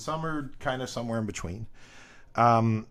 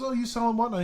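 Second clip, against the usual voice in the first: quoted dealer; 10 semitones higher, faster than usual. Retold or imitated. Quoting a friendly dealer.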